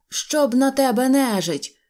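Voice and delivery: high, slow, irritated oath; weary gunners cursing the general; grumbling curse. A narrator's reading. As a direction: curse him under the strain. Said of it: "кляли його артилеристи".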